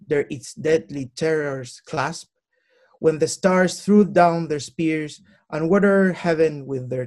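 slow solemn English poetry reading; dramatic reading of a classic poem; poem recital. Acted. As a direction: recite it like a poet on stage, with weight.

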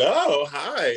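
friendly greeting. Retold or imitated.

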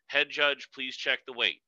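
even, polite ask to the head judge; calm polite request. Shown as a demonstration. Calm request to the head judge about the weight. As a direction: keep it calm and courteous. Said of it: "just very calmly say".

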